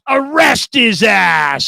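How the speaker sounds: slow, drawn-out mock order; imitated emphatic command, every word stretched; retold verdict. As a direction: pronounce it slowly like a final sentence. Old dad's verdict, retold.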